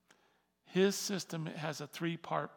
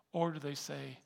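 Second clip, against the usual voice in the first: normal talking voice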